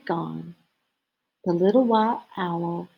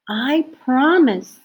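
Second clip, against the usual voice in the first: smiling promise; 5 semitones higher, 5 dB louder than usual. Acted. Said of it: "smiled the little white owl".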